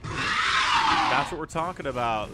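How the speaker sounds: slow, drawn-out cheering shout; excited shout. Real, not acted. Caster cheering the dropship and tank kill, slow shout. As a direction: yell it out over the big play.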